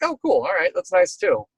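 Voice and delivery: high, breezy "oh cool"; casual delight. Retold or imitated. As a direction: toss it off lightly, voice up. Mock casual reaction to tornado.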